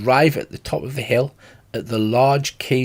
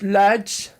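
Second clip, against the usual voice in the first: shouting; 6 semitones higher than usual. Acted. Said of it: "he shouts".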